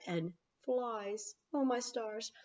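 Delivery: mock disgust. Real, not acted.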